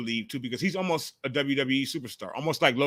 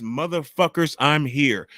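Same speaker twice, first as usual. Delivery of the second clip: mock entrance; 5 dB louder, slower than usual. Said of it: "Spongy steps up ... and says".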